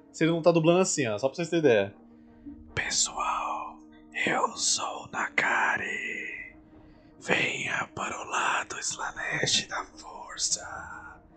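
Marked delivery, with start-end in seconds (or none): 2.8-11.2 very slow, raspy, hoarse whisper close to the microphone. Imitating how a dubber speaks his line, hoarse voice close to the mic. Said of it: "com uma voz rouca do lado do microfone".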